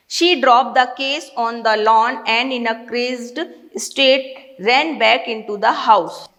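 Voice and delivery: slow, measured English reading; deliberate, drawn-out read-aloud pace; story read-aloud. A narrator's reading. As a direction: read the passage aloud slowly, word by word. Reads story passage aloud.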